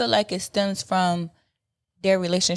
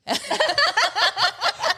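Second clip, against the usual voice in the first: haunting voice. Pretend. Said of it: "uh, ghostly voice".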